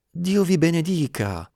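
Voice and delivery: loud, high-pitched blessing; joyful cry. A narrator's reading. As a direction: cry out in grateful amazement. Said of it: "gridò il gentiluomo". (grido di gratitudine)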